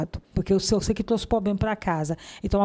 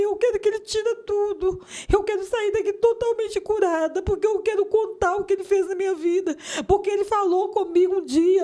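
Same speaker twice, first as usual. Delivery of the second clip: crying out; 9 semitones higher than usual. Retold or imitated. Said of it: "eu começava a gritar".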